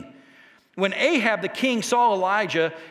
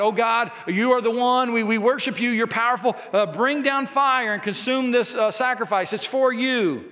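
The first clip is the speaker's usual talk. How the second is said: mildly hammed-up pleading, raised a little in pitch; crying out; 3 semitones higher than usual. Prophets crying out to their god for fire, mock crying out. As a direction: call out as if begging a god to act. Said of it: "They're crying out to God".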